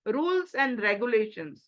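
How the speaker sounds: very slow, each word laid out; slow gloss. Real, not acted. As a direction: spell out the English gloss word by word. Gloss spelled out slowly. (शब्द-शब्द धीरे समझाते हुए)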